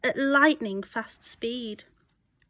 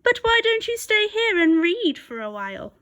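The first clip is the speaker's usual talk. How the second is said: smooth wolf, higher, coaxing; tempting her off the path sweetly; sly wolf; 9 semitones higher, 3 dB louder than usual. A narrator's reading. Wolf luring Red to stay and read, coaxing. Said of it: "so he said with a smile".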